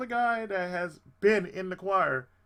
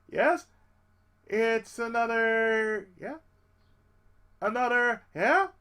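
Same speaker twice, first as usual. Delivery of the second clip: higher, louder, hopeful "yeah?"; eager anticipation; 4 semitones higher, 6 dB louder, slower than usual. Retold or imitated. Choir singer waiting to hear the new member's part, eager. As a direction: lean in hoping for good news.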